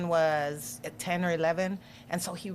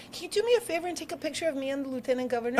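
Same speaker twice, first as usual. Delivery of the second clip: put-on eager boy asking; 6 semitones higher, faster than usual. Son asks governor for photo.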